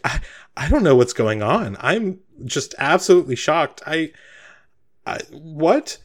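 stammering bewilderment, pitch rising; confused Sabine. Acted. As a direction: trip over the words in baffled shock. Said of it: "like, very confused".

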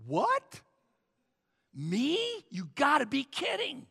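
squeaky high "What?" then incredulous; mock shocked protest; stunned disbelief. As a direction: act floored by the news. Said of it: "he goes".

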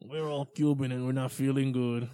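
light put-on Cuban accent; a hint of a Cuban accent. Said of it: "That's my Cuban accent".

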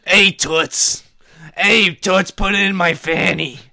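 put-on brash greaser calling to a girl; greaser tough guy. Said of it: "Like a high-pitched Igor".

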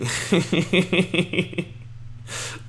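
high, breathy burst of laughter; amused laugh. Real, not acted. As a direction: crack up at the line. Laughing at LeVar's comeback.

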